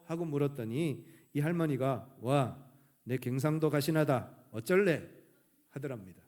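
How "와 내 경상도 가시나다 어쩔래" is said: Gyeongsang grandma. Retold or imitated. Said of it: "경상도 할머니".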